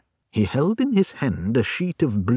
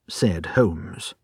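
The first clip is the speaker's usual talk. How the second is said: usual speaking voice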